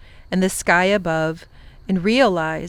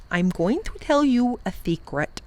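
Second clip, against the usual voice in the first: regal creature voice, hushed and intimate; Wangdoodle confiding; 4 semitones higher than usual. Acted. The Wangdoodle confides a secret to the professor, hushed. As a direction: lean in and share a secret like a royal beast.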